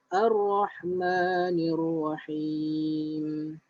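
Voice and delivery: slow, drawn-out tajwid recitation; slow Quran recitation. Shown as a demonstration. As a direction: recite it slowly for students to follow. (bacaan tajwid perlahan)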